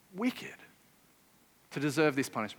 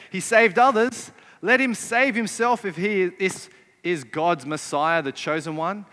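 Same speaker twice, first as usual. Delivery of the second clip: louder mock jeer at the start; scoffing; 5 dB louder than usual. Preacher voicing the scoffing leaders, mildly jeering. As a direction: sneer it like a scornful leader. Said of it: "the leaders scoff".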